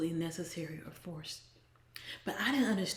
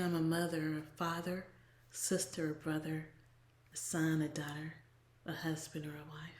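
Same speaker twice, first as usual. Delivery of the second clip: fading to a whisper; 3 semitones lower, 6 dB quieter than usual. Retold or imitated. Listing answers, fading out.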